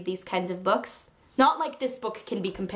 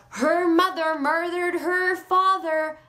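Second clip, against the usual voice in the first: quoting Mrs Lincoln; 6 semitones higher, slower than usual. Retold or imitated.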